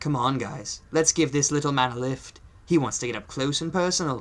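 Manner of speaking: terrible, put-on attempt at a British accent. Narrating a scene, voicing a character's lines in a terrible British accent. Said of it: "I do a terrible British accent".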